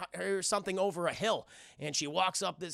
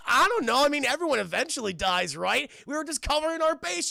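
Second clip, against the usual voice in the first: robot; 7 semitones higher, 5 dB louder than usual. Retold or imitated. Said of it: "he goes".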